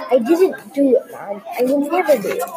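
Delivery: mock angry tearful yell. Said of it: "I yelled in the most angriest, teariest, saddest voice".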